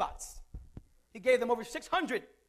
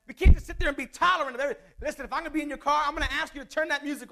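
fervent fast preaching; 4 semitones higher, 6 dB louder, faster than usual. Real, not acted. Preacher exhorting loudly and fast.

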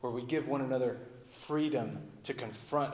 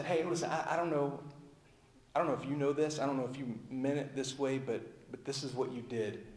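soft, caring, getting quieter toward the end; gentle confronting; 3 dB quieter than usual. Acted. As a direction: confront kindly, without blame. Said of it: "You lovingly confront them and say".

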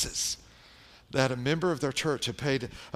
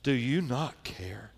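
slower inner plea; slower than usual. Retold or imitated. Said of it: "I would sit there and think".

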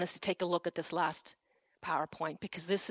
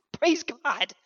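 loud praise; 7 semitones higher, 7 dB louder than usual. Real, not acted. Preacher calling praise to the congregation, loud. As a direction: praise God, called out louder and ringing.

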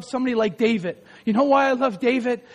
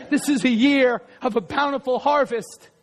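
speaking it over them. Real, not acted. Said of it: "Can I speak that into your life?".

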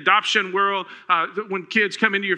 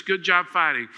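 gentle encouragement. Retold or imitated. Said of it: "he says".

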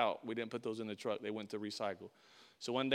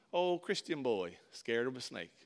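mocking taunt. Coworkers make fun of the Christian boy, mocking. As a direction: tease him in a slow singsong. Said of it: "they start making fun of me".

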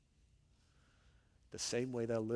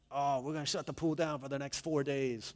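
lightly put-on hotel-guy voice; hotel employee imitation; 3 semitones higher than usual. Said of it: "this is the way he talks".

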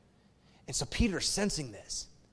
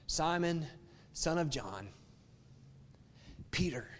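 tender third question; 2 semitones lower, 7 dB quieter than usual. Acted. Jesus asks a third time.

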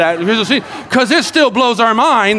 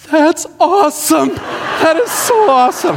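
put-on high, excited girl's voice, a bit breathless; amazed young girl; 8 semitones higher than usual. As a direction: play the thrilled kid discovering the crank window. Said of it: "So she's like".

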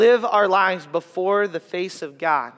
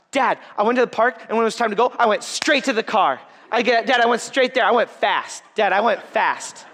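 higher, mock little girl bragging; proud toddler; 4 semitones higher, 3 dB louder than usual. Dad imitating his daughter boasting to him. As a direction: chirp it like a proud kid.

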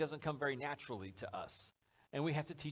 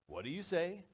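lilting "what do you say?" after the call; sing-song prompt. Acted. Parent prompting kid at the mall door, sing-song. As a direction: swoop up on "say". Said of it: "little sing-song almost".

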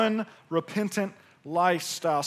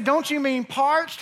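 teasing; 7 semitones higher than usual. Retold or imitated. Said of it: "She said".

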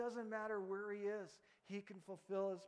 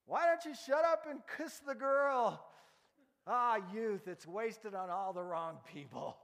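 put-on loud, high old man hollering from a porch; grumpy old man; 5 semitones higher, 10 dB louder than usual. Old man on porch yelling at George, loud and high. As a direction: bellow at the young couple from the dark. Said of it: "the voice of an old man on a porch".

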